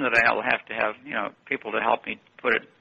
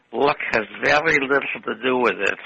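put-on a lightly done Viennese accent, calm and firm. Viennese teacher corrects his lucky student, in a light Viennese accent. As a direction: imitate the old Viennese music teacher's accent, matter-of-fact. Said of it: "said in his strong Viennese accent".

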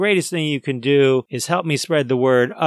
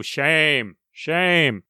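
mock shaming. Repeats mock shaming, lower.

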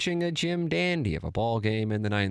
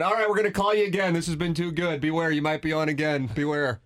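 playful warning; 6 semitones higher than usual. Real, not acted. Host jokingly warns guest.

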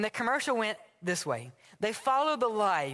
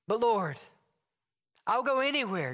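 eager pleading; 2 semitones higher than usual. Acted. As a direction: beg to be sent far away. Acted dialogue, Josh pleading.

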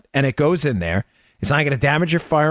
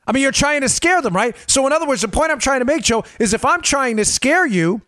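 high, animated and worked up; excited; 11 semitones higher than usual. Real, not acted. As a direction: pitch climbing as he gets fired up. Worked up making his point.

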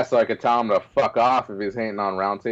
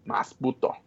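whispered echo; 5 semitones higher, 6 dB quieter than usual. Acted. Echoing the catchphrase.

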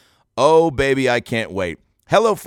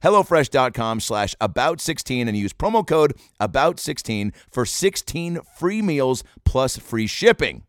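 careful retake. Real, not acted. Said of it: "I can't even say it".

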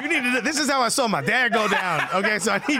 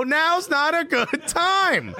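drawn-out, higher indignant protest; indignant call-out; 5 semitones higher, much slower than usual. Retold or imitated. Man on toilet answers security, indignant drawn-out call. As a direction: stretch it out, pitched up in exasperation.

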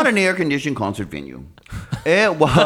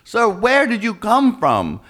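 higher, slower mock usher; pleading usher, higher; 9 semitones higher, slower than usual. Usher asking the man in the seats where he came from, pitched up. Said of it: "and they're".

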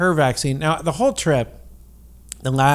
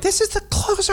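stage whisper. Retold or imitated. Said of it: "he doesn't whisper yell in real life".

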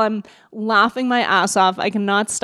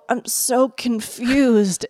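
groggy after surgery; much slower than usual. Retold or imitated. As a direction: drag it out like just waking up. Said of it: "I look at her and I go".

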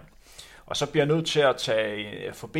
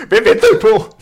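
imitating Peter Berlinger; 8 semitones higher, 13 dB louder than usual. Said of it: "siger han så".

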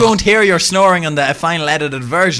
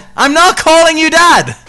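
put-on sulky teenager; 14 semitones higher, 8 dB louder than usual. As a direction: whine it like a stroppy kid refusing to call him dad. Mock sulky teen to his "dad.

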